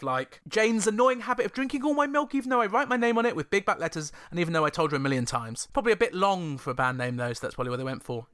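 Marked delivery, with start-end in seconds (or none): 0.5-5.7 passive-aggressive note. Pretend. Mocking a housemate's note about the milk, passive-aggressive. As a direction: read it like a snippy flatmate's fridge note. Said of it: "something a little bit more passive-aggressive".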